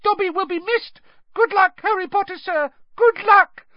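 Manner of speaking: very high, rising to loud; high-pitched excited elf farewell; squealing Dobby. A narrator's reading. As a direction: squeal good wishes after someone. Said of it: "Dobby squealed".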